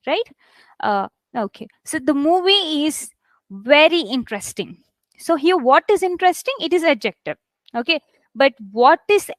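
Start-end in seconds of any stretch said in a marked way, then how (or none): 1.8-4.8 pause, then weight on "very"; stress on VERY. Shown as a demonstration. Teacher showing adverb stress to students, "very" emphasized. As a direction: lean into VERY before interesting. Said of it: "Here I'm trying to tell the adject-, adverb".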